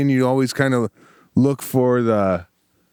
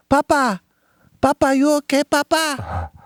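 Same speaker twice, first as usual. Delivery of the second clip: high-pitched imitation of little kids calling out; worried grandkids; 11 semitones higher than usual. Grandkids running up to fallen grandpa, high worried mimicry. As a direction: squeal it like anxious grandchildren. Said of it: "he's got his grandkids. They run up".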